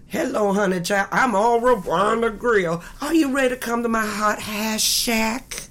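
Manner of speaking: lightly voiced sassy blues diva. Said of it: "a great name for my character".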